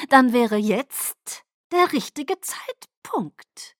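slow, voiceless, sly whisper; menacing hush. Acted. Caius slyly invites Irina to accuse, slow menacing whisper. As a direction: draw it out like setting a trap. Caius lures her, mean smile.

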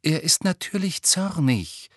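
high, firm and crisp retort; firm, clear correction in character; hard, clear voice. A narrator's reading. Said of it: "mit harter, klarer Stimme".

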